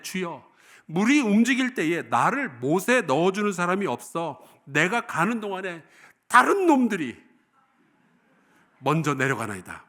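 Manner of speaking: a hint of a grumbling, hurt old invalid, rising on 다른 놈들이; embittered sick man. Preacher voicing the sick man's complaint to Jesus, mildly resentful. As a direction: read it as a worn-out man airing his grievance.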